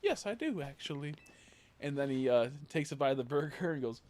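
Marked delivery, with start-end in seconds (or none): 0.0-1.1 high, loud start easing down; pitched-up mock eager reply; imitating sketch professor. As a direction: play a cheeky, hammed-up acceptance. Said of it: "He goes".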